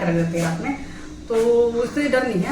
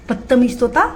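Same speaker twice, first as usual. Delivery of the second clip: scolding; 2 semitones higher, 5 dB louder than usual. Real, not acted. Scolding the parrot.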